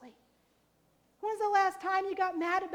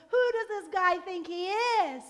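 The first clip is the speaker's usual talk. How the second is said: mock outrage; 2 semitones higher, 3 dB louder than usual. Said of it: "he cries out to them".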